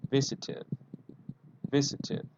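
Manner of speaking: visited ending in an extra id syllable; model of visited. Shown as a demonstration. Teacher models visited with id for the class. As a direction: sound the id on visited. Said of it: "the pronunciation is, with id".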